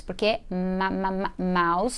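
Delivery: slow "ma, ma, ma, mouse" with the m leaned on; stressing the M sound. Shown as a demonstration. Teacher sounding out the M consonant for students. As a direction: slowly sound out "ma" before "mouse". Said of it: "som do M".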